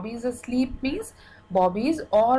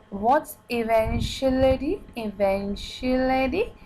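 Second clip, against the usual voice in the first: put-on puzzled child; 3 semitones higher than usual. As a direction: ask it like a confused little girl. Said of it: "So she says".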